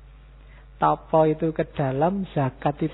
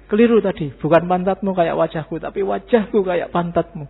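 louder, mock angry correction; majikan marah berteriak; 2 semitones higher, 6 dB louder than usual. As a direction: shout the fix at the driver. Majikan marah membetulkan ucapannya. (majikan yang marah membentak supirnya dengan keras)

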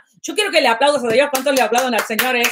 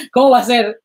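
laughing. Real, not acted. Laughs at forgetting her song.

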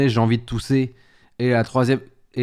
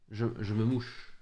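slower and softer, "mouche" spelled out clearly; slow, careful "je me mouche" so chat hears it right; correcting the slip; 3 semitones lower, 12 dB quieter than usual. Shown as a demonstration. Streamer correcting his slip for chat, slow and careful. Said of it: "j'ai dit".

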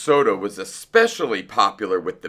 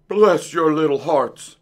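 high, effusive gratitude; crying out; 6 semitones higher, 4 dB louder than usual. A narrator's reading. Fox thanking the mice who let him in, crying out. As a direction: cry out thanks in a put-on voice. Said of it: "he cried".

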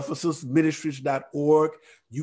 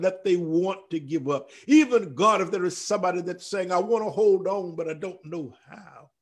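earnest intercessory prayer; 3 semitones higher than usual. Acted. Prays aloud for struggling listeners.

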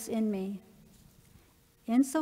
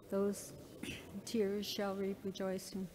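whispered repeat; 2 semitones lower, 8 dB quieter than usual. Real, not acted.

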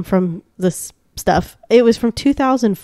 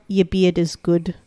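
put-on New Zealand accent; 4 semitones lower, 3 dB quieter than usual. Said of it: "if I do a New Zealand accent".

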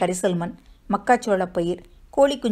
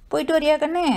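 higher, fondly coaxing mother; soft coaxing tenderness; 7 semitones higher, faster than usual. A narrator's reading. Mother seeing her daughter off to school, tender coaxing. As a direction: coo it softly to your child. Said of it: "கொஞ்சலான மென்மை குரலில்".

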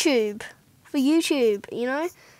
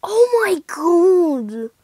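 mock crying; 5 semitones higher, 8 dB louder, much slower than usual. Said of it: "My bank account be crying".

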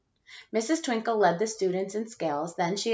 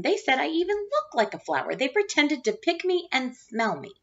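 put-on higher, plaintive little girl; upset child; 8 semitones higher than usual. Chrysanthemum telling her parents about the teasing, high hurt child voice.

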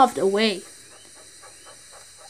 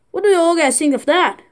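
proud little engine; 5 semitones higher than usual. Acted. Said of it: "Edward told the other engine".

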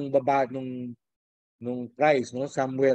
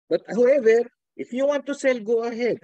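teasing permission; 8 semitones higher, 5 dB louder than usual. Real, not acted. Teacher grants students leave to sell.

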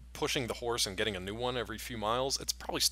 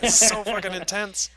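loud, slow and higher emphatic awe; loud amazed emphasis; intense awe; 10 semitones higher, 10 dB louder than usual. Real, not acted. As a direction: lean hard into how intense it was. Marvelling at intense scene.

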